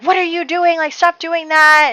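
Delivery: high, loud mock telling-off; shrill-free high yell at a child wrecking the garden; mock angry scolding. Sister scolding the girl pulling up plants, mock angry. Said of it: "is furious".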